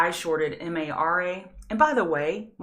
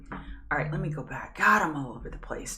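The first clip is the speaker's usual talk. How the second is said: whispered, to herself, nearly unvoiced; whispered aside. Real, not acted. Streamer whispering to herself while switching charts. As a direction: drop to a private whisper.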